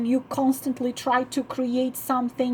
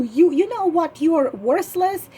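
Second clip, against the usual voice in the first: mock accusing, a little higher; blaming; 3 semitones higher than usual. Wife blaming her man, lightly acted accusing tone. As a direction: point the finger at him with contempt. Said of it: "You're blaming".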